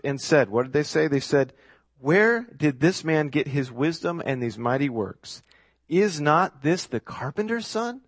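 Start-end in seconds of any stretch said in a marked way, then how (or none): 2.0-8.0 incredulous slow sarcasm, pitch climbing at the end; mocking, disbelieving crowd; sarcastic. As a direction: draw it out like a scoffing question. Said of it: "Can you hear the sarcasm here?".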